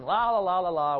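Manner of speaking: mild mock yell of a child at play; half-hearted singsong scream; retold child's screaming. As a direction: imitate a noisy kid's singsong. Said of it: "jumping on the bed and screaming".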